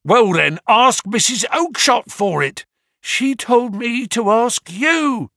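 high whiny small man; whining. A narrator's reading. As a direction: plead in a thin high whine. Little man pleads with salesman.

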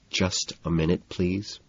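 very soft, nearly silent request; mouthed words. A narrator's reading. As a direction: barely voice it, as if mouthing.

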